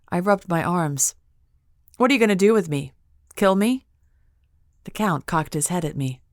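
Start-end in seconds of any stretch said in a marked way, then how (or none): 2.0-3.9 higher, louder, scared question; fearful and tense; frightened. A narrator's reading. Frightened captive asking her fate.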